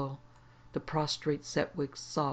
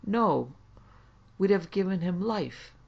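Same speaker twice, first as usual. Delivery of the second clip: higher, louder pleading protest; quavering; 5 semitones higher, 5 dB louder than usual. A narrator's reading. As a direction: fawn and protest before a threatening presence. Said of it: "he quavered".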